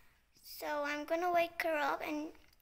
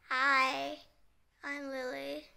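lightly rude doll introduction; rude mode; 3 dB louder, slower than usual. Pretend. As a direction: introduce yourself with a touch of rudeness. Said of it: "in a rude mode".

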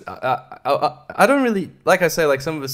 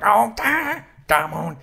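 high, mocking voice of a singer; mock a singer in his cheesy short movies; imitating a singer; 8 semitones higher, slower than usual. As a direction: parody his film-acting line delivery. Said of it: "just M J going".

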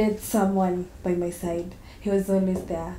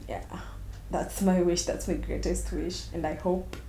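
soft, tender longing, fading quieter; wistful; 5 dB quieter than usual. Acted. Woman addressing the lover who disappeared, wistful. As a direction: speak softly to someone who is gone. Wishing to meet lost lover.

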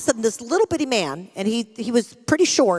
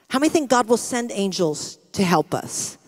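usual speaking voice

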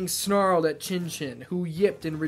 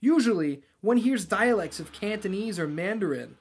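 lightly voiced higher-pitched follower; a hint of an eager talker, pitched up; 4 semitones higher than usual. Follower chats with the priest about languages, higher eager voice.

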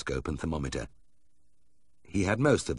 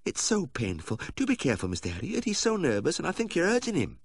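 high, fretful pleading voice; anxious lady owner; 11 semitones higher than usual. Acted. Wife warns the vet he is hurting her dog, high and fretful. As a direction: worry aloud and chide him gently.

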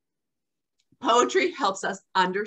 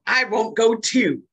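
put-on decreeing toddler; 2 semitones higher, 5 dB louder than usual. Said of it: "he decrees".

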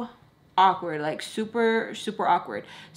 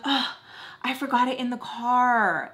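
higher, stretched-out mock excuse; imitating friend's excuse; 3 semitones higher than usual. Friend at the till without money, put-on excuse. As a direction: act out her oops, dragging the end. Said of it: "That's what she says".

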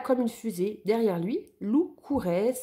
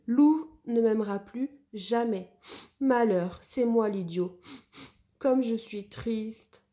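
sad; 2 semitones higher than usual. Acted. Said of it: "le cœur gros".

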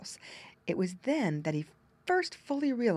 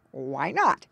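great surprise; 3 semitones lower, 6 dB louder than usual. Acted. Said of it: "demanded Grandfather Frog in great surprise".

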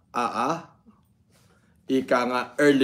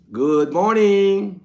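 drawn-out greeting; 4 semitones higher, 5 dB louder, much slower than usual. Real, not acted. Drawn-out live stream greeting.

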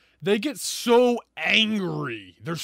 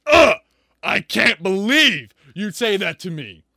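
mock offended outrage; 7 dB louder than usual. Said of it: "She's supposed to be like".

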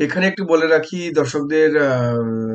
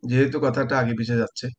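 raised voice; 2 semitones higher than usual. Real, not acted. Urging guest on bad line.

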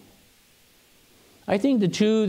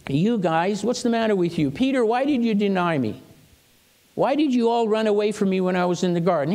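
higher-pitched, lightly acted scolding; mock rebuke; 4 semitones higher than usual. Jesus imagined scolding the disciples who ran away, mild rebuke. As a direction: take them to task, mildly exasperated. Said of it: "He doesn't rebuke them".

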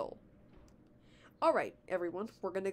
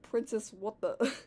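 mild replay of a puzzled line; quoting own delivery; slower than usual. Retold or imitated. Reader replays Mario's line to Anna, amused imitation. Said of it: "I just love how I said".

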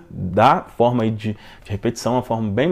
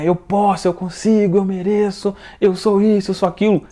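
raised, higher-pitched self-affirmation chant; mock shouting; 7 semitones higher than usual. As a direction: chant it like a rally crowd, without a full shout. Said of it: "a pessoa grita".

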